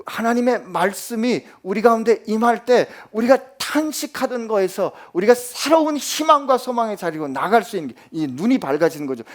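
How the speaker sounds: ordinary talk, nothing marked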